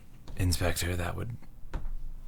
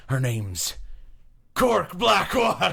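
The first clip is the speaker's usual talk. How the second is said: Cork Blackwater voice; 12 semitones higher than usual. Acted. GM unveiling the new NPC, squeaky laughing voice. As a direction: squeak it out while cracking up. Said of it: "she sounds like this".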